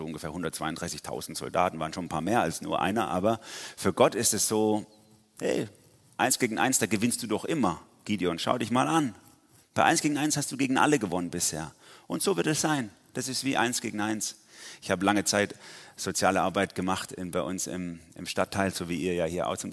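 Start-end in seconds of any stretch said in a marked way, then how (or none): 5.4-14.4 higher-rising, urging him on; lightly acted rousing encouragement; encouraging pep talk. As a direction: cheer on a doubter as God. God cheering Gideon on, acted.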